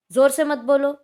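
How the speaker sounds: "जोर से मत बोलो" given as a loud, firm order; commanding. Shown as a demonstration. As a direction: snap "जोर से मत बोलो" at a noisy class. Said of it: "आज्ञा दे रहे हैं". (ज़ोर से आदेश: "जोर से मत बोलो")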